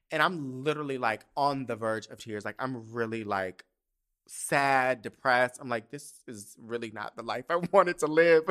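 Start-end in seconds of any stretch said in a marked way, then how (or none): 5.9-8.4 louder mock lament cracking into a laugh. Teen self on the verge of tears at the arena, mock despair. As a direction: wail it half-laughing.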